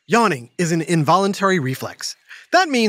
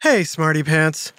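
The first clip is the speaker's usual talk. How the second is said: lower, drowsy hello just after a nap; sleepy greeting; 3 semitones lower than usual. Real, not acted. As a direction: greet them while still half asleep. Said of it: "I just woke up from a nap".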